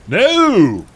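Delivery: high, loud, drawn-out wail; melodramatic cry. A narrator's reading. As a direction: cry out in mock horror. Character cries out in horror.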